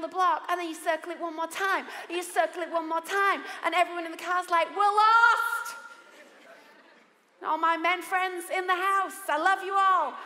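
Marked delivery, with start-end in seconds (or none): 4.8-5.8 car full complaining. Retold or imitated.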